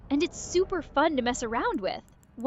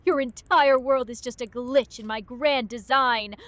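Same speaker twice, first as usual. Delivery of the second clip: intimidating villain. Pretend. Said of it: "Get more intimidating".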